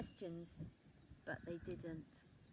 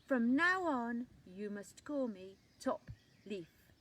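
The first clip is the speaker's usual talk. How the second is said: grand and rude; 7 dB louder than usual. A narrator's reading. Leaf declaring his new name, grand and loud. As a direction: proclaim your new title. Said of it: "the leaf was very rude".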